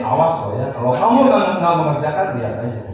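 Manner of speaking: threatening teacher. Retold or imitated. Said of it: "Kalau penghukum begini".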